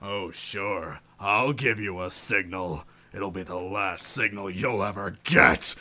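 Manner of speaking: hushed villainous sarcasm; sinister aside. Acted. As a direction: promise it quietly, with ill intent.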